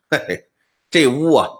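a light sneering chuckle, then a hint of menace; mildly voiced cold laugh, teasing the scholar. Broker sneers at the scholar, lightly mocking. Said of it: "三三冷笑啊".

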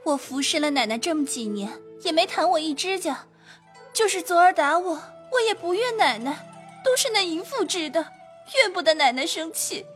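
fast, very high, choked-up maid; tearful maid. Acted. Maid forgiving her mistress, tearfully. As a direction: speak through welling tears. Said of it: "说着也滴下泪来了".

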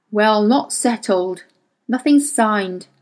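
slow, hesitant hedge; hedging. Acted. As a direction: stall for time. Payne hedging slowly.

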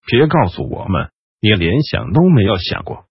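rasping, hoarse whisper of a voice. Acted. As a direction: say it hoarsely, throat scraped dry. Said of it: "雷斯林嘶哑地说".

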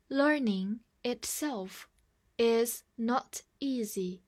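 slow, clear model sentence; slow reading. Shown as a demonstration. Teacher invites the class to read along slowly. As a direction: read slowly for students to echo. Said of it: "跟我慢读一遍".

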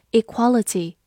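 equality with the stress on qual; e-QUAL-i-ty, second syllable stressed. Shown as a demonstration. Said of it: "重音放在了第二个音上".

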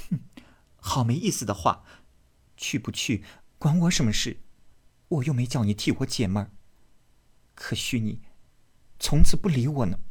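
hushed, huffy, flaring at the end; sulky jealous girl. Acted. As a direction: pout and push him away. Daiyu sulking.

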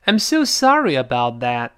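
"sorry about" joined by a very light y; light linking glide. Shown as a demonstration. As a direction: run "sorry" smoothly into "about". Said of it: "这个e要特别轻". ("sorry about"轻轻连读)

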